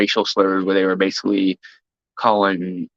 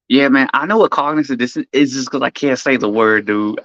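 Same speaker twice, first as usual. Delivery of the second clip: mocking Zerka; 4 semitones higher than usual. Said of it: "that's how that motherfucker talks".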